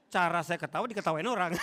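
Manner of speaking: words break into laughter; chuckling through a school memory; laughing while telling. Real, not acted. Preacher laughing to church about his own laugh.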